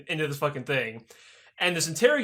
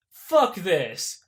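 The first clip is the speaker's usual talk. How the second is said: mock angry decision. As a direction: slam it down in mock disgust. Jerry decides to defect.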